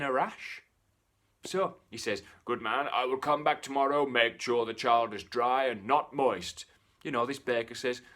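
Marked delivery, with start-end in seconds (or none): 2.4-6.7 lightly voiced devil.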